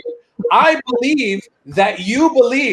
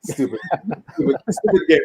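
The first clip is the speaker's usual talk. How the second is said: dismissive Arab uncle, laughing through it; mock Arab accent scoffing at baseball, laughing; 4 semitones lower, 5 dB quieter than usual. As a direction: scoff at the game like an immigrant dad. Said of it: "he says".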